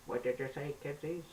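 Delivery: put-on high, quavery old man; creaky elderly voice; shaky old man voice. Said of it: "Newton sounded like a shaky old man".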